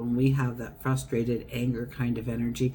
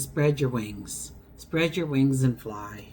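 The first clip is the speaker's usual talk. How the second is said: butterfly's message; slower than usual. Acted. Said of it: "and says".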